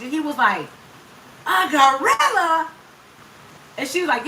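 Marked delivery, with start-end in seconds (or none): 1.5-2.7 slow, high, mock-outraged question; heated husband. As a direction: stretch it out in indignant disbelief, imitating the husband. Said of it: "He was so mad".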